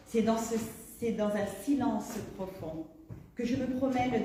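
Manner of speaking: declaimed literary prose, each phrase set apart; poetic reading. Acted. Poet invites listeners into the heart of magic, poetic reading. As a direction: recite it with firm, measured emphasis. Reads on from her introduction.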